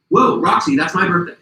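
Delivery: high, loud retold exclamation; amazed. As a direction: re-enact surprise at a coincidence. Retold surprise at shared birthday.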